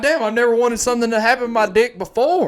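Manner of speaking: amazed. Retold or imitated. Retelling his reaction to the pump story, amazed. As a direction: blurt it out, wowed.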